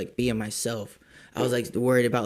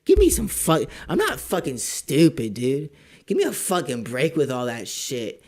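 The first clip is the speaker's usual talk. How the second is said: loud, heated retort; mock telling-off of a scammer; retold angry rant; 3 dB louder than usual. Telling off a scammer, heated and loud.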